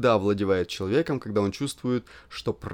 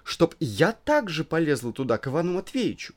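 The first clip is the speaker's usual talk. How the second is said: flustered squeamish wife; 3 semitones higher than usual. Acted. Elena flustered, disgusted.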